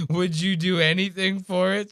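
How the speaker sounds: high mocking creep voice; Dave, creepy. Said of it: "saying it all weird like that".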